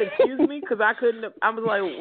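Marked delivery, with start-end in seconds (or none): 0.0-0.6 much higher, disbelieving "Excuse me?"; retelling his stunned reply to the woman's ask; incredulous excuse me. Retold or imitated. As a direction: react like you misheard something outrageous. Can't believe the steak request.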